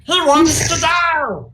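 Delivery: high, slow, alarmed kobold; panicked squeaky kobold. Acted. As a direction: kobold shrieking in alarm, drawn out. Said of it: "Sir Dim looking and goes".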